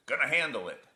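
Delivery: a touch of a loud brush-off; father's brusque reply. Acted.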